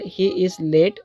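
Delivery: "He is late" said with a falling end. Shown as a demonstration. Teacher demonstrating a statement that falls before its qualifier. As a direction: let "late" fall. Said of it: "इसको हम falling tone के साथ में".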